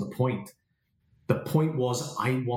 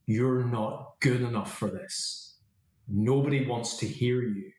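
slow inner critic; slower than usual. Retold or imitated. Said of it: "that voice of criticism".

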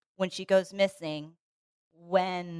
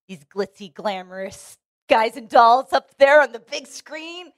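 glamorous Hollywood voice; 3 semitones higher, 8 dB louder than usual. Retold or imitated. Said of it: "and be like".

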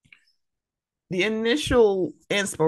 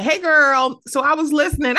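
higher-pitched, playful imitation of a chatty listener; 9 semitones higher, 4 dB louder than usual. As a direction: open like a friend with news to share.

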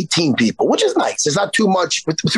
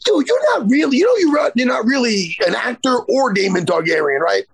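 mock angry rant at a smug cosplayer, starting much higher; imagined telling-off, heated at first, then settling; 4 semitones higher than usual. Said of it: "And I'm like".

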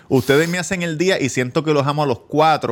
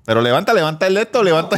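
insistencia burlona; 5 semitones higher, much faster than usual. Real, not acted. Insiste entre risas.

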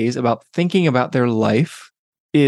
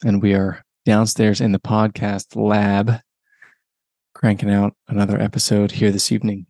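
relaxed late-evening radio host; 3 semitones lower than usual. Real, not acted. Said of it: "I've got my evening radio D J voice happening".

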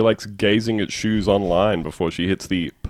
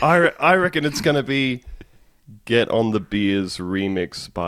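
elated radio caller. Acted. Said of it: "he's having the time of his life".

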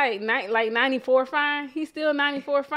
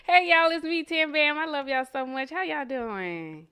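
fake baby voice; 4 semitones higher than usual. Cohost greets the podcast listeners in a mild fake baby voice. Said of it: "you be putting on that fake-ass baby voice".

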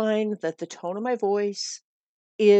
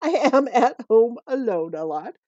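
laughing; 2 semitones higher, 5 dB louder than usual. Real, not acted. Laughs at admitting she's home alone.

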